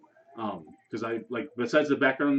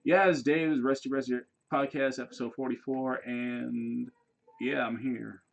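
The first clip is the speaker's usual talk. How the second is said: flat bored podcast intro; 4 dB quieter than usual. Retold or imitated. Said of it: "It's like".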